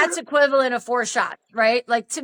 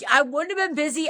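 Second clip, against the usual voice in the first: quick, higher-pitched retort; retold indignant comeback; going off; 5 semitones higher, faster than usual. Woman contradicting Dan's excuse, indignant. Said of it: "I went off on him".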